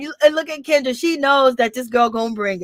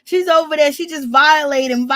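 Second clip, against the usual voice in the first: higher-pitched mock outrage, near laughter; mad; 4 semitones higher than usual. Host retelling Bambi's upset over Mama D, mock-mad. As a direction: imitate someone upset, pitched up. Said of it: "Like, she's mad".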